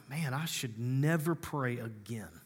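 awed whisper to himself; whispered aside. Retold or imitated. Pastor mock-humbled by another's prayer, whispering. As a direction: breathe it out, humbled. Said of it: "and I'm like".

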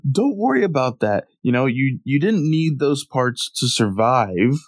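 put-on high, carefree kid voice; cheerfully reassure, clueless; innocent Goku voice. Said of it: "he's like".

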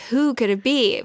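voiced, heightened dramatic question; building suspense. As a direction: raise the suspense, out of the whisper. Suspense building as lid lifts more.

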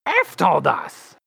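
high, excited blurt of the name; barely held excitement. Acted. Tiny hero to the girl, straining to stay calm and excited. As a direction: try not to sound excited but fail. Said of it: "trying to not be excited".

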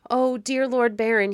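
high, loud plea for mercy; crying out in appeal. A narrator's reading. Boy clutching the Baron's knees, crying out high and pleading. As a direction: cry out like a pleading child. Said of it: "he cried".

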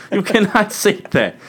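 high, slow shocked disbelief; scandalized. Real, not acted. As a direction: gasp it out, appalled. Scandalized on-air scolding.

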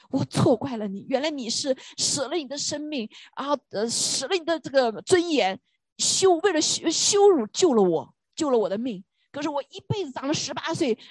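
lightly voiced sorry son; mild retold weeping. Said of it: "他就哭".

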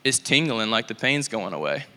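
flat, deadpan monotone voice; deadpan monotone, no inflection. Retold or imitated. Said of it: "straight face, so monotone".

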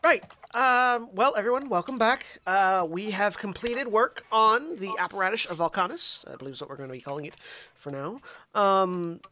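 hint of a proud inventor; plain-spoken craftsman voice; lightly voiced artificer NPC.

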